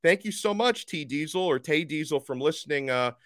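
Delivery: over-the-top mock British accent; bad British accent. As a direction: put on a cartoon British accent for a London listener. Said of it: "I tried to, to imitate the accent over there".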